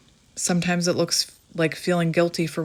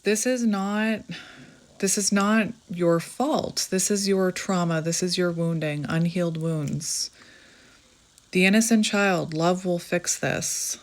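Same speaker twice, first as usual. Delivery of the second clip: gentle reading. Real, not acted. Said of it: "I'm just gonna read you this".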